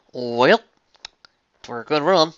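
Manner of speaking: loud, high southern farmer rant; Applejack rant. Acted. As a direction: shout it out like a fed-up farm pony. Applejack voice again.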